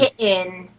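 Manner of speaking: "Kitten" split as "ki-in"; "Kitten" with a catch in place of T; dropped T. Shown as a demonstration. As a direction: demonstrate "Kitten" without its T. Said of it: "When you drop the T".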